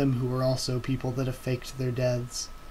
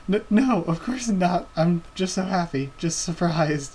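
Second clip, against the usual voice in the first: put-on tearful happy girl; 4 semitones higher than usual.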